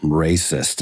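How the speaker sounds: drawn-out, very high mock-prissy voice; prim scolding producer. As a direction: play the offended studio person, stretching every word.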